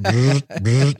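buzzing noise for a duck flying off; repeated short buzz of wings; imitated whirring flight. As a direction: mimic a fleeing bird's buzz. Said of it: "you know going bzz".

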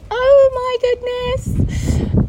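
high, drawn-out mock gasp of shock; retold shock. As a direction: stretch it out, acting out amazement. Retold shocked reaction to reading.

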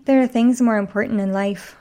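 put-on novel hero in a Scottish accent; lightly voiced Scotsman. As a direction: answer with a light Scottish lilt. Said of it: "I gave him a Scottish accent".

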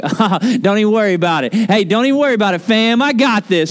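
casual, quick, offhand reassurance; breezy dismissal. Retold or imitated. Jesus mock-imagined shrugging off the grief, breezy and fast. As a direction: brush it off like it's nothing, fast. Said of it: "go like".

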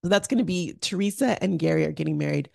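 hoarse raspy speaking voice. Real, not acted. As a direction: talk through a raspy throat. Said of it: "I'm sorry for the raspy voice".

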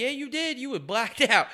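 very high mocking father; mock dad voice. The father tells his son he was blacked out, high and mocking. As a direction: needle him like a smug dad. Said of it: "Be like".

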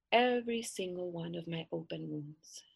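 hushed sinister whisper; whispered old crone; creepy whisper. Acted. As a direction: breathe it out like a witch. Creepy grandmother's request.

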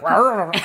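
jokey Northern Irish tiger growl; rah-rah roar as a Northern Irish tiger. Pretend. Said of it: "He's a Northern Irish tiger".

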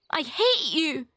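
put-on angry child's outburst; choked cry. A narrator's reading. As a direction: cry out through choked anger. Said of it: "she cried in a choked voice".

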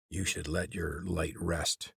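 slow muffled voice, slumped down. Acted. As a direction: speak muffled, half into the floor. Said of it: "Jord's muffled voice".

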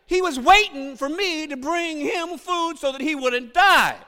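high, loud, drawn-out comic outrage; hammed-up parental indignation; indignant dad. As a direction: rant like a father who can't believe it. Acts out indignant father's complaint.

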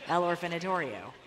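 put-on fumbling tourist guesses in a hammy Spanish accent; mock Spanish accent. Asking a Mexican cab driver for an orphanage, in a mock Spanish accent. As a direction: try out the word in a put-on Spanish accent, groping for it. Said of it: "I just said the word orphan with a Spanish accent".

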